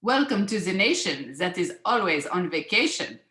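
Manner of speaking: lightly put-on French accent; French hostess with a fake French accent; bad French accent. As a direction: welcome a guest in a mock French accent. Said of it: "I'm gonna do my bad French accent".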